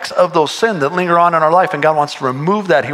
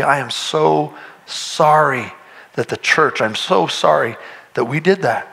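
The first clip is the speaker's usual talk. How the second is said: sincere apology. Retold or imitated. Apologizing to a hurt man.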